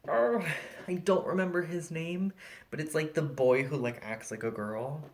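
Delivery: customer quote. Retold or imitated. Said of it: "And the woman goes".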